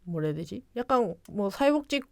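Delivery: ordinary talk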